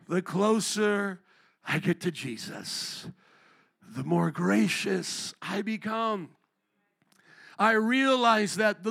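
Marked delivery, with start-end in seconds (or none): 0.1-6.3 unhurried repeat with pauses between phrases; drawn-out preacher's refrain; slow, savoured quote. Retold or imitated. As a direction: let each phrase land slowly. Repeats the preacher's line slowly.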